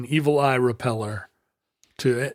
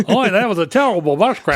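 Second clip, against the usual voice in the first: mock careful American accent; 3 semitones higher, 5 dB louder than usual. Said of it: "speaks in the slow, careful way ... hitting the R's too hard".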